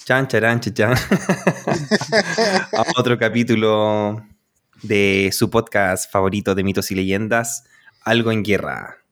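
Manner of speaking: slow, drawn-out show welcome; podcast intro. Acted. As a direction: welcome the listeners, stretching the words out. Host opens the podcast show.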